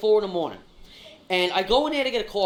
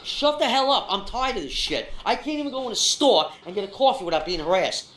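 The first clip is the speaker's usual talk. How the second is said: mildly heated retold outburst; fed-up retort, acted out; retold snapping. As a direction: snap back, retelling an exasperated comeback. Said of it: "And I snap".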